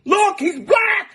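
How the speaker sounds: high, shouting mock dad showing off his son; mock proud father. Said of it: "He's like".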